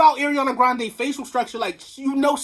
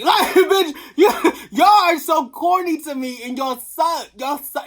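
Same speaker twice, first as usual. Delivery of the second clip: high, loud, laughing through the words; laughing insult; 4 semitones higher, 5 dB louder than usual. Real, not acted. Vlogger mocking critics while laughing. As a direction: cackle while you dunk on them.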